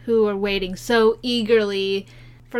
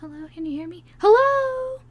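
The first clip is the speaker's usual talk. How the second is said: confused caller; 10 semitones higher than usual. Retold or imitated. Imitating caller who can't hear.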